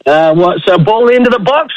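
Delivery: soaring, shouted play-by-play goal call; rising excited soccer commentator yelling go. Shown as a demonstration. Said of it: "give us your best, uh, World Cup of soccer goal announcement".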